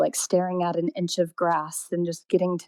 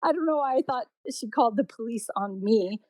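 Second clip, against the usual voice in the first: high, teary little-girl plea, imitating; child pleading; 6 semitones higher than usual. Little girl pleading with the policeman, mock-teary and high. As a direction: beg him not to take you away. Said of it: "I just started crying".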